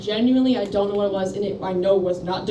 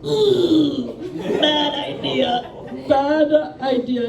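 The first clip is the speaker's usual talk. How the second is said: laughing it out, higher pitch; cringe-laugh at her own mistake; 6 semitones higher, much slower than usual. Real, not acted. Comic recalling classroom blunder, laughing higher.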